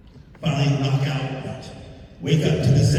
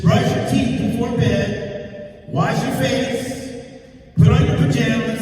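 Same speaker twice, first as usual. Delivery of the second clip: imitating the lady; 7 semitones higher than usual. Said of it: "She said".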